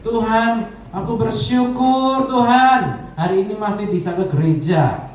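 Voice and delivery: a believer thanking God slowly; thankful prayer. Acted. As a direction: pray it out with a thankful heart. Grateful believer praying.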